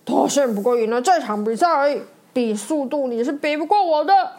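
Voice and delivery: a touch of angry bragging, quick; mild sore-loser fuming. Acted. Sore loser Bob fuming at Mater, mildly angry. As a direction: huff it out, refusing to admit defeat. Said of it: "巴布快气炸了".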